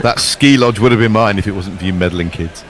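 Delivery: lightly hammed Scooby-Doo villain; cartoon villain. Commentator playing the thwarted villain, hammed-up cartoon voice. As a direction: do a mock unmasked cartoon villain. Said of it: "just standard Scooby-Doo".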